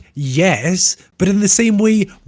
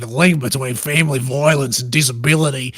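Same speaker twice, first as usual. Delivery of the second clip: put-on Australian accent. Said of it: "Do it possibly in an Australian accent".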